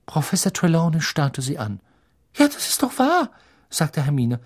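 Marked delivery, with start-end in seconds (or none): 2.4-4.4 very high, insistent schoolgirl voice; defiant Hermione. Acted. Hermione defies the teacher. (Hermine, sehr hoch und trotzig)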